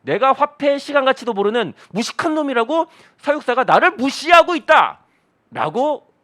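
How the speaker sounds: loud, high-pitched mock indignation; hammed-up aggrieved outburst; angry monkey. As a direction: protest loudly as an insulted monkey, stretching the end. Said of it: "원숭이는 왜 화난 거예요?".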